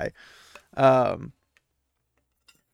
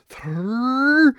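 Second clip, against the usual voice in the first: warning count; 11 semitones higher, 5 dB louder than usual. Acted. Nynaeve counting them out.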